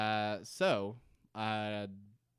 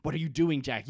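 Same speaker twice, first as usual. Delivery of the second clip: accusing Kate; 3 semitones higher, 6 dB louder than usual. Retold or imitated. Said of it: "and is like".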